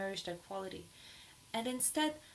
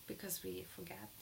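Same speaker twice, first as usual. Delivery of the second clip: breathy hush, much softer; whisper; 2 semitones lower, 11 dB quieter than usual. Real, not acted. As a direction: drop to a whisper to let it land. Whispered aside in talk.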